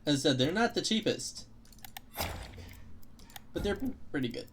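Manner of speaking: talking through hiccups; hiccuping. Real, not acted. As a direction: hiccups breaking the words. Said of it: "Man, I'm hiccuping so much".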